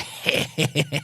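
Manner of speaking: quick run of put-on doggy breaths; imitated dog noise. Showing Jim at someone's doorway, imitated dog noise. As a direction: imitate a busy little dog.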